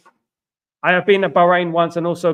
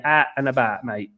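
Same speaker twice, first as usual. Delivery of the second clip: "out and about" said Cockney, like "at an' abaht"; Cockney accent on "out and about". Shown as a demonstration. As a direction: demonstrate Cockney "out and about" with a long "aa" for "ow". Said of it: "at is A A T".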